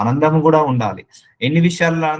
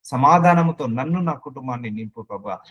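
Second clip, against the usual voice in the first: sample prayer. Shown as a demonstration. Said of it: "Use these words in your prayer".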